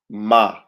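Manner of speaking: Ma as a short open "mah"; Hebrew word demo. Shown as a demonstration. Teacher modeling a Hebrew word for students, clearly. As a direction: say Ma clearly, one syllable. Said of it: "let me do it for you".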